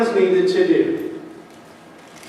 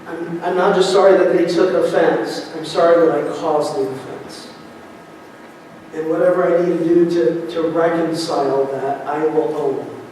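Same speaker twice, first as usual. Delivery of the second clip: sincere apology. Shown as a demonstration. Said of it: "have the heart that says".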